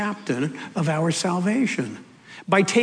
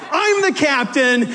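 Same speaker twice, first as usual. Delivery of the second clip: raised, triumphant proclamation; bold declaration; 7 semitones higher than usual. Acted. Captain declaring who he is, bold and raised. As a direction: proclaim it with full conviction.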